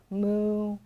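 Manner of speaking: usual speaking voice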